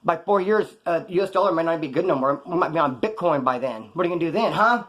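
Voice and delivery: indignant rant. Retold or imitated. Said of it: "This is bullshit".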